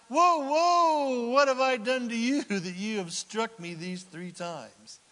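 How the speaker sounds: high, loud startled donkey voice; talking donkey. Acted. Donkey protesting to Balaam, high and startled. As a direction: play the hurt donkey protesting. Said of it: "said to Balaam".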